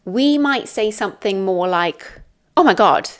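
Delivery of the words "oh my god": louder demonstrated exclamation of surprise. Shown as a demonstration. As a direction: act briefly taken aback. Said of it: "express our surprise".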